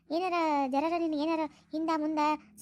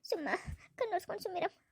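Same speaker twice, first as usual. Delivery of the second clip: quiet self-talk; 4 semitones higher, 7 dB quieter, faster than usual. Acted. Telling herself to stop crying.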